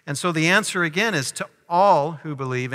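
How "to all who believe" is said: all hit firmly, then who believe falls away; stress on all. Shown as a demonstration. Preacher to congregation, stressing all in all who believe. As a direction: lean hard on the word all. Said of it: "emphasis on the word all".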